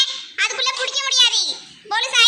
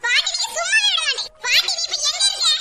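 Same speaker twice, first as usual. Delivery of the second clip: put-on higher-pitched child calling for grandma; complaining calls; 4 semitones higher than usual. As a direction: call out for grandma in protest. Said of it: "சும்மா இங்க நின்னு கத்திட்டே இருக்காத". (பாட்டியை கூப்பிட்டு புகார் செய்யும் குரல்)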